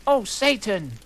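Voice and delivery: milder falsetto retake; mock pleasure yell. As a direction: pull it back a notch, still high. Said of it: "yelled Harry in pleasure".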